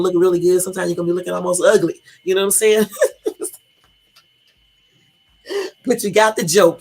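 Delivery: laughing. Real, not acted. Cracks up over her joke.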